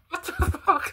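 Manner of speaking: high, words broken by a laugh. Real, not acted. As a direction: laugh through the swear. Laughing at the video.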